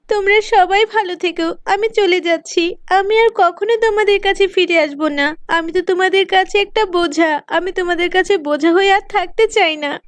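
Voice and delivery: mildly tearful goodbye; tearful farewell. Acted. Girl leaving home says goodbye, mildly tearful. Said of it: "কান্না করতে করতে বেরিয়ে পড়ে".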